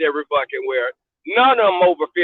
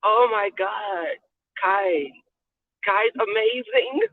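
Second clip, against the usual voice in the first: put-on slow, drawn-out gushing white girl; 3 semitones higher, 4 dB quieter, much slower than usual. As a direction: mimic a white girl cooing over a dog. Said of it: "you know how white people are".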